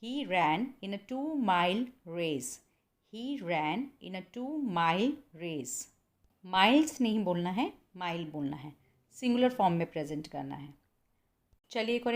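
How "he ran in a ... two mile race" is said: "two mile" said slowly with no s on "mile"; slow correct model. Shown as a demonstration. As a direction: repeat it slowly for the students. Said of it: "You say". ("two mile" धीरे और साफ़ बोलें)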